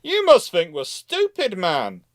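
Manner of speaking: sneering naval officer; mocking British captain. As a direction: scoff at the French like a smug captain. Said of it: "captains are looking at that French ship and going".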